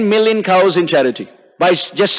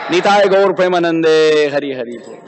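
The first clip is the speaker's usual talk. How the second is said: closing invocation; 3 semitones lower than usual. Real, not acted. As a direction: draw out the invocation and let it fade. Closing chant to congregation.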